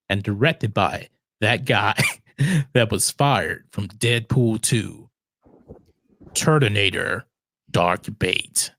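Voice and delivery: low, slow trailer announcer; deep dramatic trailer narration; movie trailer voice. Pretend. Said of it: "I'm gonna try it in a trailer voice".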